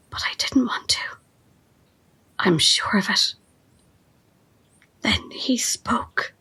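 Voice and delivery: dreamy whisper. Acted. Carl remembering Wesley's first words, in a dreamy whisper. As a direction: drift off into the memory. Follower describes the leader's pull.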